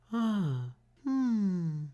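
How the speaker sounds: high, soft worried mum; relieved mother. A narrator's reading. Mother finds Franklin, high and relieved. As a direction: sigh it out in relief. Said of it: "she said".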